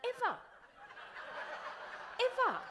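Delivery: punched final ever; emphatic repeat. Shown as a demonstration. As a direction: hammer home ever twice. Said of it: "no one else is ever thinking".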